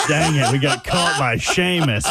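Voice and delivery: chuckling through the words; half-laughing, amused. Real, not acted. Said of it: "laughing while speaking".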